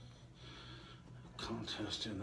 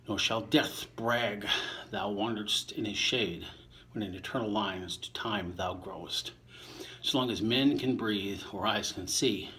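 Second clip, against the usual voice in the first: measured verse recital, a touch louder than his chat; poem reading; 4 dB louder than usual. Acted. Reader reciting Shakespeare to listeners, measured poem voice. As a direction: give each line its verse shape. Reading sonnet eighteen aloud.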